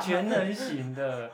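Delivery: 慢慢拉长的调侃; 拖长音调侃地重复; drawn-out tease. Real, not acted. Teasing echo, drawn out. (拖长语调的调侃)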